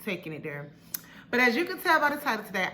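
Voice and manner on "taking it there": breathless after running outside; out of breath. Real, not acted. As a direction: talk while catching your breath. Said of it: "I'm sorry I'm out of breath".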